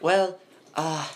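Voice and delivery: thin, nervous librarian voice; a lightly voiced scrawny librarian. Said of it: "I get to use my scrawny librarian voice again".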